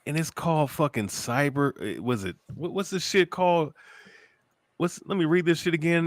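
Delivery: loud, heated call-out rising in pitch; angry rant. Real, not acted. Calling out the streamer on video, heated and loud. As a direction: tear into her, fired up.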